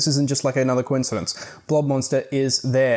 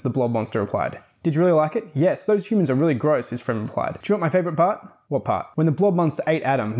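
animated audiobook reading with lilting dialogue; story narration; 2 semitones higher than usual. A narrator's reading. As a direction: read it aloud like a children's spooky storybook. Reads the book's ending aloud.

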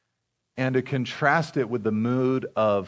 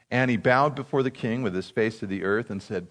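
normal talking voice

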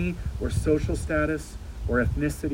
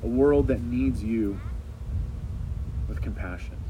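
earnest prayer. Acted. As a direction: lead the church in earnest prayer. Leads a closing prayer.

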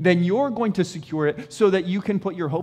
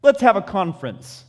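God calling everyone; 2 semitones higher, 5 dB louder than usual. Pretend. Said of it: "He says".

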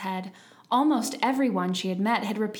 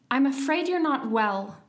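higher-pitched soothing concern; gently concerned; 5 semitones higher, 5 dB louder than usual. A narrator's reading. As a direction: soothe a cross invalid. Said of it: "said in a soothing tone".

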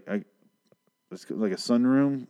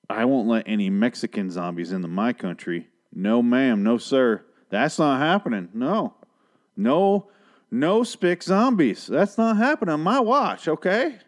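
starts as a stern lawman, then climbs much higher and louder; a trigger-happy sheriff getting more and more worked up; gun-happy border patrol guy, building to a shout; 3 semitones higher, 3 dB louder, slower than usual. Retold or imitated. Mocking the border patrol guy who can't wait to keep zombies out, rising to a yell. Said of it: "And he's like".

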